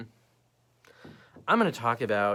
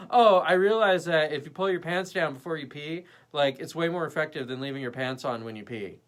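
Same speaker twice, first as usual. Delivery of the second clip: mock grand revelation, starting louder; lightly parodied self-important storyteller; trying to sound smart; 2 semitones higher, 4 dB louder than usual. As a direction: deliver a pointless realization as if profound. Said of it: "trying to make something sound really smart".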